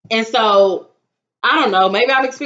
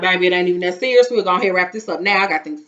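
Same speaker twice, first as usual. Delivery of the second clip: imitating her mama; 4 semitones lower, faster than usual. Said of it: "my mama will be quick to stop you".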